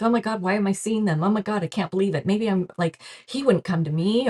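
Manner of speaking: fast, gushing, breathless disbelief; mock overwhelmed fangirling. Meditator overwhelmed by seeing an ascended master, fast gushing. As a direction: rattle it off like a starstruck fan. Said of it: "Maybe you're fangir-, girling a little bit too much".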